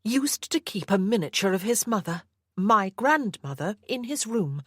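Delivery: a hint of a firm young mother; Anna, defiant. Anna answers her captor.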